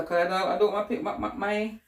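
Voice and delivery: tripping over words; stumbling repeats; stuttering. Real, not acted. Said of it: "I'm stuttering".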